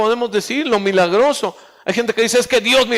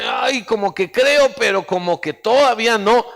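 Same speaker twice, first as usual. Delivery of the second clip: hesitant doubt. Acted. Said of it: "otras veces como dice".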